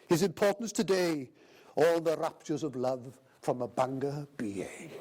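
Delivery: lightly recited verse with a steady lilt, measured in places; poem read out at a dinner speech; poem recital. Acted. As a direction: recite a comic Welsh poem to the room. Recites the poem's closing lines.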